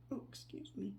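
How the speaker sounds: interrupted by a hiccup; hiccuping mid-sentence. Real, not acted. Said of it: "Got the hiccups all of a sudden".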